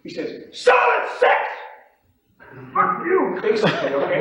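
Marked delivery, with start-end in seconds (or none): 0.5-3.4 very high, loud combative yell; confrontational. Retold or imitated. Pit trader offering as a challenge, confrontational. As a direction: imitate an in-your-face pit trader. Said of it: "He offers it in a confrontational manner".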